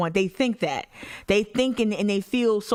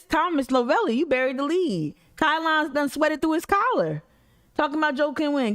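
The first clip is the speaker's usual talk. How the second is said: hammed-up high excited newsman; bad acting; 8 semitones higher than usual. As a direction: overact it like a thrilled anchor. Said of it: "if he delivered it like this".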